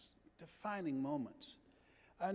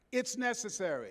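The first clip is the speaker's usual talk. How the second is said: call to repeat; 4 semitones higher, 3 dB louder than usual. Shown as a demonstration. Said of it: "let us say together".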